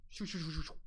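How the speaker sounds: rapid hushed "shoo" noises for a flying dagger; imitated dagger swoosh. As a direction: whoosh like a blade through air. Mimics the dagger's swoop.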